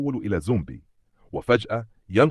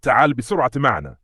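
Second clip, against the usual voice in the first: building to a loud, higher call; worried urging; 4 semitones higher, 6 dB louder than usual. A narrator's reading. Father calling his son to come along, worried. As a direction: urge anxiously, rising in urgency. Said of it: "ويقول له بقلق".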